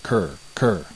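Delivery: croaking like a raven; harsh bird croak. A narrator's reading. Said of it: "made a noise like".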